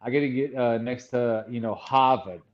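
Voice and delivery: Boston r-dropping on "Harvard" and "Yard"; Boston accent. Shown as a demonstration. Showing what Boston needs, demonstrated Boston accent. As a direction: drop the r's like a Bostonian. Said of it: "And if it's Boston".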